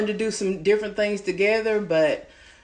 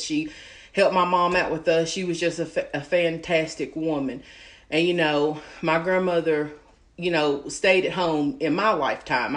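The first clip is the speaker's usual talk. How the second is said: holding back tears; 2 semitones lower than usual. Real, not acted. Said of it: "I'm probably about to get emotional".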